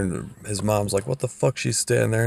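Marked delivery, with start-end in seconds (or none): 1.1-2.3 shocked mom. Retold or imitated.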